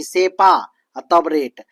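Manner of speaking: सेपा and रेट as two separate chunks; teacher sounding out सेपा, pause, रेट; split for memorizing. Shown as a demonstration. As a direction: break after सेपा, then give रेट on its own. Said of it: "तो इसको ये ऐसे याद रखिए".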